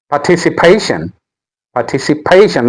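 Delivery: "participation" with PA in the later part stressed; moved stress. Shown as a demonstration. Teacher showing the stress has moved, "participation" stressed partici-PA-tion. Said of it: "Now the stress has moved".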